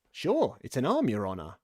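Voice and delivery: "arm" in two syllables, "ar-um"; servant's dialect "arum" for "arm". A narrator's reading. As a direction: add a small vowel before the m in "arm". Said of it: "He pronounced it arum".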